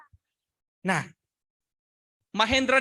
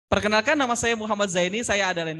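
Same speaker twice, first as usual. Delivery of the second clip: composed, ready self-introduction; ready, prepared speaker. Shown as a demonstration. Trainer models a student ready to present, prepared and alert. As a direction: introduce yourself without hesitation. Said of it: "itu berarti udah siap".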